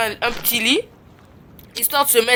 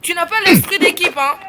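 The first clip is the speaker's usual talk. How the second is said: scolding; 6 semitones higher than usual. Real, not acted. Streamer scolding a player with no team spirit, raised voice. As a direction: tell him off sharply.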